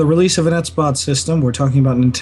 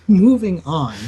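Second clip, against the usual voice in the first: chuckling through it, slow; laughing; 5 semitones higher, 4 dB louder, slower than usual. Real, not acted. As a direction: laugh while you say it. Laughing repeat.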